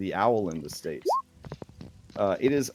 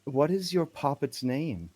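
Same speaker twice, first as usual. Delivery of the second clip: lightly voiced, higher woman's part; odd woman's role; 4 semitones higher than usual. Woman asking Toothless about his doll, lightly voiced curiosity. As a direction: lift it slightly into a curious lady character. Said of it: "and she says".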